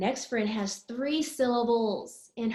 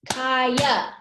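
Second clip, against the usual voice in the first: KAYA in two loud, even beats; syllable by syllable; 5 dB louder than usual. Shown as a demonstration. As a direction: punch out KA and YA in KAYA. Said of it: "she's got two syllables".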